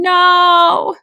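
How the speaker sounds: high, loud anguished scream; full-throated scream of refusal. A narrator's reading. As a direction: scream it from the soul. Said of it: "her entire soul screaming every sound".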